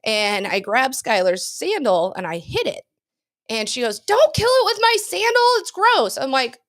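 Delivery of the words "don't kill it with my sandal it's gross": high squeaky impression of a friend; Skylar voice. Telling her cohost how Skylar whined about the sandal, high Skylar voice. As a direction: pitch way up to play the fussy friend. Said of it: "'Cause that's my Skylar voice".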